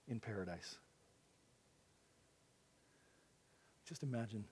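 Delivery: soft, low delivery with long pauses; hushed, reflective preaching. Acted. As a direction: let each phrase sink in, very quietly. Hushed close of sermon passage.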